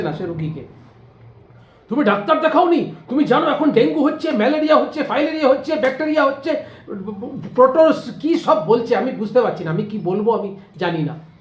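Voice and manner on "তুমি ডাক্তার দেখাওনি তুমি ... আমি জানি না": fussy alarm. Retold or imitated. Nosy neighbour rattles off diseases.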